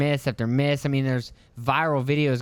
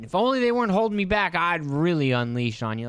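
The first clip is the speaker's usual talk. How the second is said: mocking tough-guy voice; 4 semitones higher than usual. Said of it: "Acting like you're gonna fucking fight".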